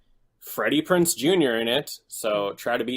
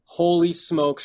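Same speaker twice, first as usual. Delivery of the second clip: slow, drawn-out holy smokes with a jump up; amazed exclamation; 6 semitones higher, 4 dB louder, slower than usual. Real, not acted. Friend marvelling at how bad the actress is, drawn-out amazement. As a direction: let the disbelief stretch out.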